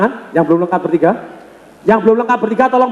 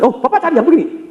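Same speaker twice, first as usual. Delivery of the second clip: higher-pitched, quick-talking reply; fast talker; 5 semitones higher than usual. Acted. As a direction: jump in briskly, pitched up. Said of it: "Anda ngomong cepat".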